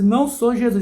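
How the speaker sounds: mock denial. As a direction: push back playfully. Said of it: "e você".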